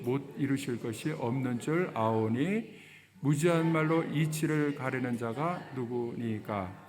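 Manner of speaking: slow, measured verse reading; scripture reading. Acted. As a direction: read the verse out evenly for all to follow. Reads the verse with congregation. (성경을 천천히 또박또박 봉독)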